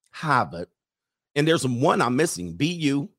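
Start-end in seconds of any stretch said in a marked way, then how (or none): 0.1-0.7 "Harvard" as a low Hah-vud; Boston accent. Acted. Host listing Boston colleges, playful Boston accent. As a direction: mimic Boston's r-less "Harvard". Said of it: "Is that how they say it in Boston?".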